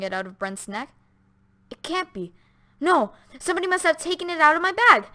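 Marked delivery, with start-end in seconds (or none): 1.7-5.1 alarmed denial. A narrator's reading. Doctor denies, shocked.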